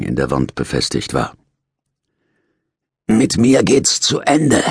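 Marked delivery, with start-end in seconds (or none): 3.1-4.6 put-on a dying old man rasping it out slowly, high and loud; hoarse call. Old prisoner calls out to the ward, hoarse and slow. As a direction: call out hoarsely, the words dragged. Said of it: "rief er heiser".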